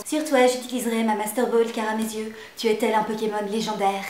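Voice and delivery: a lightly hammed-up seductive declaration; lightly hammed-up grand pickup line; mock pickup line. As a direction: deliver it like a corny romantic hero. Mock pickup line with Master Ball.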